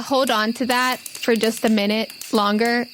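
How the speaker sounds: ordinary delivery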